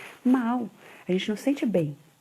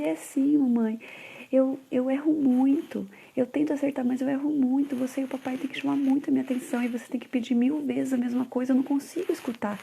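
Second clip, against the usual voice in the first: imitating crying son; 5 semitones higher than usual.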